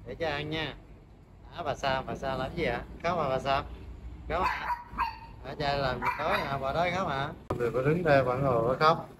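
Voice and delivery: dỗ dành chó nhỏ nhẹ, nói nhỏ hẳn; giọng dỗ thú cưng hơi nhỏ, hỏi han; soft pet talk. Real, not acted. Soft talk to crying dog Sam. (dỗ con chó Sam đang khóc, nói nhỏ nhẹ)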